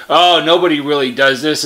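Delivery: ordinary talk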